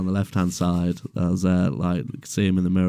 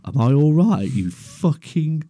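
higher, louder outraged yell; angry retort; 6 semitones higher, 4 dB louder than usual. Retold or imitated. Porter yelling at the driver who crushed him, outraged. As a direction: snap back in disbelief. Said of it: "I was like".

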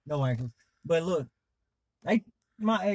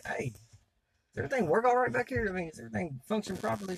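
mock concerned question; 8 semitones higher, 3 dB quieter, faster than usual. Asks Diane about her body.

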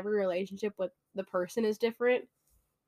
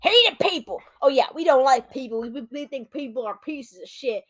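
mock grumpy rant; 4 semitones higher, 7 dB louder than usual. Mocking their own grumpiness.

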